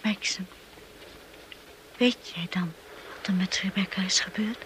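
fearful whisper. Acted. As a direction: barely dare to ask. Wife asks fearfully, hushed.

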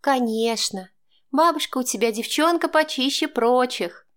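hammed-up grandmother boast; theatrical. A narrator's reading. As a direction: declaim it playfully to the grandson. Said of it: "театрально провозгласила она".

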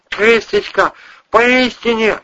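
put-on high, gurgling drunk voice. A narrator's reading. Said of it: "булькал Вась-Вась".

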